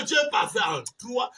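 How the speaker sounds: ordinary talk, nothing marked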